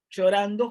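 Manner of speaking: a lesson example that stresses the fronted "Llorando"; emphatic fronted word. Shown as a demonstration. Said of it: "suele marcarse énfasis".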